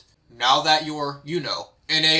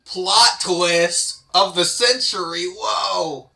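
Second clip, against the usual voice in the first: mock excited shout; much slower than usual. Mock reaction to story twist.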